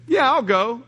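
bright rising yeah, eager to come; eager yes. Pretend. Invitee happily accepting the friend's church invite, eager. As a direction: say yes like you can't wait.

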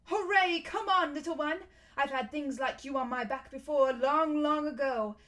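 high, loud joyful cheer; excited horse. Acted. Fledge eager to carry Diggory, high loud cheering. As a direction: whoop with delight and eagerness. Horse delighted to fly the boy.

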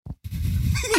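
quiet, held-in breaths; stifled breathing. Shown as a demonstration. Kid trying not to annoy his brother, stifled breathing. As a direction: imitate trying to breathe softly. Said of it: "try my best not to breathe loud".

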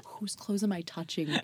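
whispering through laughter; breathy laughing whisper. Real, not acted.

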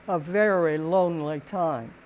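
ordinary delivery

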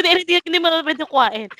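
urgent mock objection; retold protest. Retold argument with team leader.

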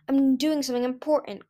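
a light, mildly snappish retort; snapping. Acted. Kinkajou brushing off Bromeliad, a touch snappish. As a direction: mildly snap back in defence. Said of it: "Kinkajou snapped".

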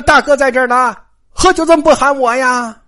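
loud hearty call across the room. Acted. Jia Lian bursts in, calling to his cousin loudly. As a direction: barge in and hail him loudly. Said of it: "进屋就喊呐".

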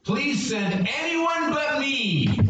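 high, slow pleading wail; whiny pleading Moses. Acted. Moses pleading with God to send someone else. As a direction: beg like a reluctant kid. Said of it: "literally in the Hebrew".

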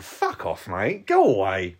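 a player's quiet fed-up mutter at the coach's telling off; muttered brush-off. Retold or imitated. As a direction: grumble it away to yourself, not to his face.

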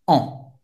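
"On" as a strongly nasal French vowel. Shown as a demonstration. Teacher showing the sound to learners, "On" very nasal. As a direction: send "On" through the nose, no final N. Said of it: "tem um som bem nasal".

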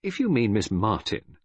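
mildly stiff, offended reply; cold. Acted. Friend resents detective's question about the woman, coolly. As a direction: answer him coolly. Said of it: "I said coldly".

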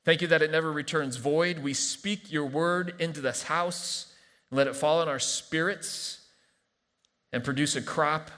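measured, earnest prayer with pauses; calm congregational prayer. Real, not acted. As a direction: settle into thanking God, phrase by phrase. Prays aloud after the reading.

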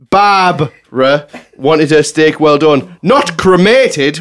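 drawn out, every word spelled out slowly; slow the punchline right down for effect; slow punchline delivery. Real, not acted. Host reading a listener's joke out slowly on air.

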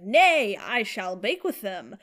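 grand olde English, slow; mock archaic speech. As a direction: declare it like a knight. Mock old-fashioned retort to sister.

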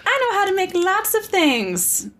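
high, indignant mock Padme; hammed-up huffy reply, pitched high; mock defensive Padme. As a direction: protest in a high pretend voice. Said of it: "She's like".

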